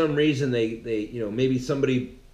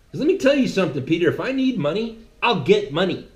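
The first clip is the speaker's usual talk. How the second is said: stern scolding Jesus; 2 semitones higher than usual. Acted. Jesus voiced scolding Peter.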